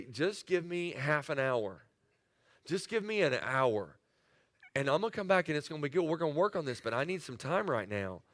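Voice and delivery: husband calmly asking his wife for a time out; calm request. Retold or imitated. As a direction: ease it down gently, asking for time.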